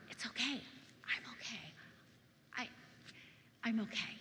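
softly insisting, with halting pauses; hushed brave face. Retold or imitated. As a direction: quietly pretend it doesn't hurt. Hurt child hiding disappointment at Christmas.

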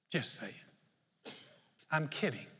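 soft, offhand throwaway joke; flippant quip. Retold or imitated. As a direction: shrug it off lightly. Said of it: "the kind of person that's like".

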